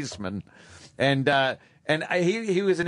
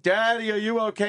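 put-on child voice; 8 semitones higher than usual. Child voice for hurt father.

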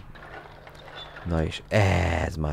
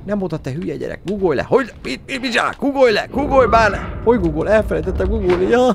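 high, loud squeaky scolding; squeaky character voice; 9 dB louder, faster than usual. Pretend. Gamer voicing a character scolding the child to crouch. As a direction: nag like a shrill cartoon parent.

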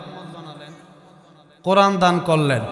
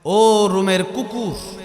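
slow defiant insult; much slower than usual. Acted. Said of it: "রাদিয়াল্লাহু আনহু বললেন".

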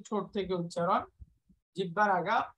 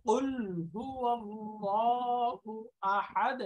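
Quran recitation; much slower than usual. Real, not acted. Teacher recites verse slowly.

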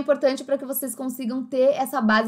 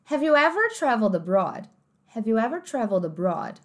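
sentence in a clear American English accent. Shown as a demonstration. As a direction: read it like an American speaker. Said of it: "cada uma dessas frases com sotaque americano". (sotaque americano)

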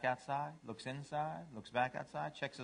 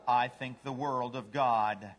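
low, slow, lightly voiced devotion; humble dog; 4 semitones lower, slower than usual. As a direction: say it slowly and low, sincerely. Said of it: "What's a dog say?".

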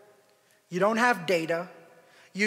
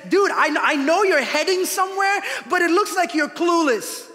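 friendly Jesus voice; 11 semitones higher, 9 dB louder than usual. Acted. Jesus voiced helping lost traveler.

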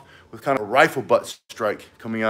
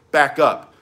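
firm command; 5 dB louder than usual. Shown as a demonstration. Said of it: "but indignation".

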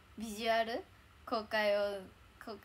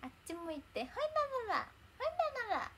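much higher, squeaky cutesy anime voice; cute character voice; 13 semitones higher than usual. Retold or imitated. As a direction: chirp the rock-paper-scissors line like the little character. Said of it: "なのらが余ってるのよ". (アニメキャラの可愛い声真似で「ほいなのら」)

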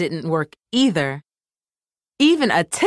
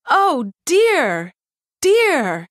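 high, fretful little microphone voice; cartoon microphone fretting, higher pitch; distressed toy cry; 8 semitones higher, much slower than usual. A narrator's reading. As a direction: wail it like a worried toy. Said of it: "she cried".

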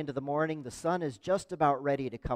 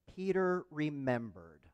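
slow, softer, weighty phrase; deliberate quoting; 5 dB quieter, slower than usual. Retold or imitated. Preacher quoting the key words to the congregation, slow and deliberate. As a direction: let each word land slowly.

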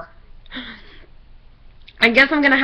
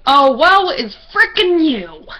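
slow, loud sarcastic mockery; 3 semitones higher, 5 dB louder, slower than usual. Real, not acted. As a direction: drip sarcasm slowly. Sarcastic aside.

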